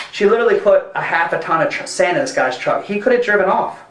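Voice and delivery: high-pitched, amazed retelling; astonished, voice jumping up; incredulous excitement. Real, not acted. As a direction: tell it like you still can't believe it, pitch climbing. Incredulous retelling of the sand favour.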